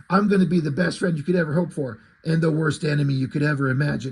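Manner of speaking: re-reading Batman's full threat with a lighter gruffness. Retold or imitated.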